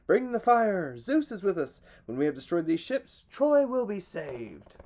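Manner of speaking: loud, high cry, slowing at the end; battle cry. A narrator's reading. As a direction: answer with triumphant defiance. Hector's answering battle cry.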